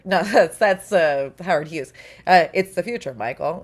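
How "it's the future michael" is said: plain quote of the line. Retold or imitated. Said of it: "is the line for the commercial".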